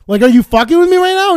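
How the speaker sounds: incredulous outburst. Retold or imitated. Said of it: "And I'm like".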